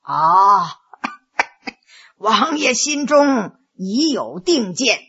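slow, softened counsellor's voice with a cough; measured adviser. Acted. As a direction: answer the prince without any hurry. Old adviser answers the prince.

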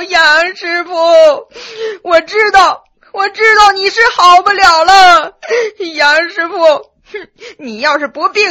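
loud, high, tearful wailing; crying and shouting. A narrator's reading. Restrained boy mourns Master Yang, loud sobbing wail. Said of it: "一边喊一边哭".

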